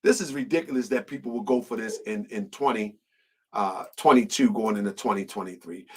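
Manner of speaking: low radio host read. Shown as a demonstration. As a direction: announce it like on air. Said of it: "I'm gonna change my, uh, my radio voice too".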